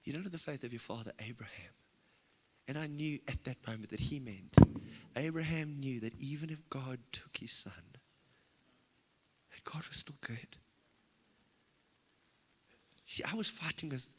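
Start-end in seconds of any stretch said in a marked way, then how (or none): 0.0-1.7 a hint of a calm divine voice; voice of the Lord. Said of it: "And he says". 5.1-10.6 slow, hushed whisper; a preacher whispering the truth he learned; whispered revelation. Real, not acted. Revelation told in hushed awe.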